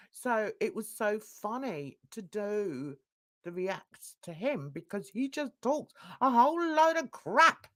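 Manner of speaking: ordinary talk, nothing marked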